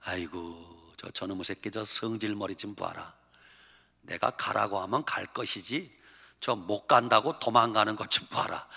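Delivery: a father muttering at a runaway son, softly exasperated; exasperated grumbling. Retold or imitated. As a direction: shake your head and grumble under your breath. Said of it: "하나님이 틀림없이 이랬을 거예요".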